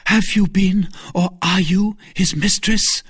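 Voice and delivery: high, forceful interrogation; jealous, insistent demand; energetic questioning. A narrator's reading. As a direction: press the question phrase by phrase. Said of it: "with an energy of which".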